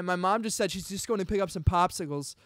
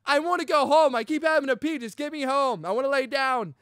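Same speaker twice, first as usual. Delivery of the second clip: higher, louder mock complaint; pretend yell at mom; 7 semitones higher, 4 dB louder than usual. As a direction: whine it at mom like you could yell. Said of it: "I couldn't, like, be like".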